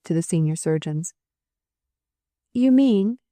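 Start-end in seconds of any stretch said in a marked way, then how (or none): 2.5-3.2 high, shaken stammer. A narrator's reading. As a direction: stumble out the words, shocked. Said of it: "she stammered".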